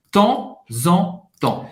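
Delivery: "Temps en temps" slowly, final P and S silent; slow "Temps en temps", ending on the nasal vowel; P e S mudos. Shown as a demonstration. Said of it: "não vai pronunciar o P e o S no final". ("Temps en temps" devagar, sem P e S no final)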